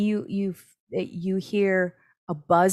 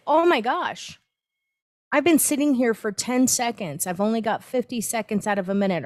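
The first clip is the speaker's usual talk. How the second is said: mock exasperation; 4 semitones higher than usual. Inner voice of a restless meditator, mock exasperated. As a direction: ham up a restless meditator's alarm. Impatient meditator's thoughts mocked.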